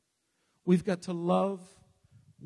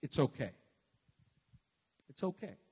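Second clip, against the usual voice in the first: dismissive phrase; 4 semitones lower, 6 dB quieter, faster than usual. Retold or imitated. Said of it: "what words we use today".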